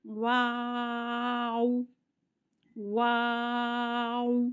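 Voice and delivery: واو long with rounded lips; rounded waw. Shown as a demonstration. Quran teacher showing students واو, lips rounded and drawn out. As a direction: hold واو with round lips start to end. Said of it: "ہونٹ گول کرنے".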